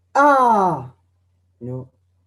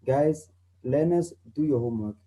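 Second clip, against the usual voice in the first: calm. Shown as a demonstration. Calm teacher telling learners to do homework. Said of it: "If I'm calm, like I am right now".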